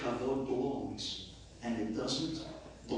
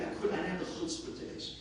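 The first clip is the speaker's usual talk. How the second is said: sheepish aside; 3 semitones higher, 5 dB quieter, faster than usual. Real, not acted. Embarrassed aside.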